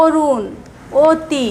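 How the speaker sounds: অরুণ and অতি said as "orun", "oti"; অ ও-এর মতো উচ্চারণ; o-like vowel. Shown as a demonstration. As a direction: open অরুণ and অতি on an ও sound. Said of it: "ও ধ্বনির মতো উচ্চারণ".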